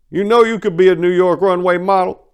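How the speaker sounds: high, loud, slick compliment; leering flattery. Acted. Duke Willie flattering Maria, high and loud. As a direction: sweet-talk her with menace under it.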